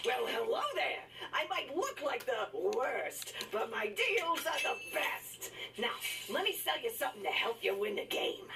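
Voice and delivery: smarmy shopkeeper pitch; comic restaurateur. Acted. Voicing in-game salesman character.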